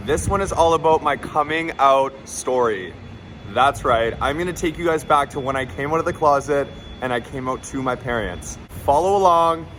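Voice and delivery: hyped, loud vlog intro; bubbly YouTuber hype; breathless gossipy storytime. Real, not acted.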